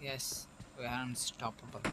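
slow, drawn-out announcer imitation. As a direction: stretch it out like a game announcer. Echoing the announcer's "unstoppable.

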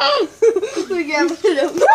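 laughing through a full mouth; mumbling round marshmallows; cheeks stuffed full. Real, not acted.

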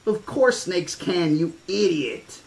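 put-on scornful kid. Child scolds, teasing.

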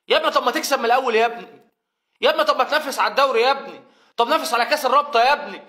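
fed-up fan's rant; exasperated. Real, not acted. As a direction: scold them like wayward sons. Exasperated scolding of players.

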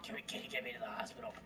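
quiet wet gurgle, dying; gargling blood voice. Acted. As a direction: choke the words out through blood. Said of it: "what he sounds like in the end of the movie".

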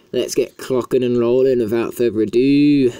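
badly faked Australian accent. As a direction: put on an awful Aussie twang. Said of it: "Australian accent, but I apologise".

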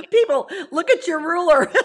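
laughing through the words; amused, giggling at the tiny size; kind gentle laugh. Real, not acted. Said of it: "I'm not laughing at you".

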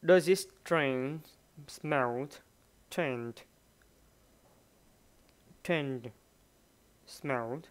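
slow, careful teacher read; slow classroom demo of the sentence; slow model reading. Shown as a demonstration. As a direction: spell each word out slowly. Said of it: "Ở đây hỏi phát âm là gì?".

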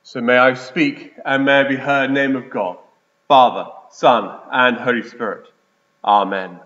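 low, measured prayer voice. Acted. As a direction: pray solemnly before preaching. Prayer before the sermon.

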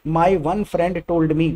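very slow, word by word; slow wrong-example demo; slow awkward example. Shown as a demonstration. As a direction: drag out the awkward phrasing. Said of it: "English में awkward sound करेगा".

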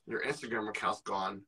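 low, quiet mimicry of a friend; imitating friend. Friend retelling his wake-up call about a banned account, mocking imitation. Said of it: "why you said it like that?".

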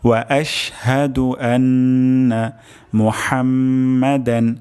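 whole phrase recited slowly, measured, chant-like; slow recitation. Shown as a demonstration. Teacher recites the full phrase again for students, slow chant. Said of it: "আরেকবার উচ্চারণ করছি".

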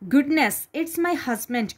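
startled wife hearing her husband come; giant's wife alarmed at the giant's footsteps; startled cry. Acted. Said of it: "cried the giant's wife".

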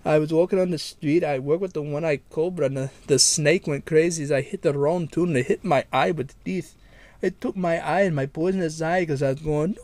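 a mild put-on Indian accent in a prank call. Prank caller to the listener, mild Indian accent. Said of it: "like, an Indian man".

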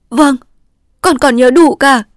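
put-on high, loud, earnest girl's reply; eager young daughter. A narrator's reading. Daughter earnestly assuring her dying father she remembers. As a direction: answer him firmly and eagerly.

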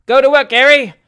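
loud, high shout of encouragement; high, rowdy call from the audience; cried out. A narrator's reading. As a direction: yell it to a friend on stage. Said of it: "cried the comic gentleman's personal friends".

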